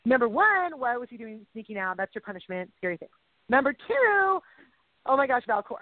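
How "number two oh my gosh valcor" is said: getting excited. Real, not acted. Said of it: "I'm getting loud".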